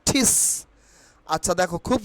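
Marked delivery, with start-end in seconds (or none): 0.1-0.3 ঠিস with a puffed T, word set apart; aspirated T. Shown as a demonstration. Teacher drilling students on the word teach, aspirated T. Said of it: "এখন কি হবে?".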